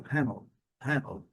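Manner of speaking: "Handle" with the D almost swallowed, like 'hannl'; "Handle" with hardly any D; D barely pronounced. Shown as a demonstration. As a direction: say "Handle" gliding from N to L. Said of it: "Quase o D nem é pronunciado".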